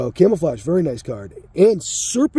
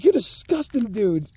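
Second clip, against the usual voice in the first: higher, incredulous "You're disgusting"; a hint of disgusted friend; mock disgust; 5 semitones higher than usual. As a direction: tease him like you're grossed out. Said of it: "I'm like".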